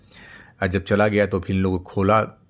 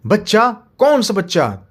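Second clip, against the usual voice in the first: monster puzzled; 12 semitones higher, 5 dB louder than usual. Acted. Monster asks.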